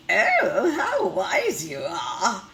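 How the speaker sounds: loud, slow, gushing praise; admiring. Acted. Teacher voicing the hen praising the rooster, loud admiring gush. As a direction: gush over how clever he is.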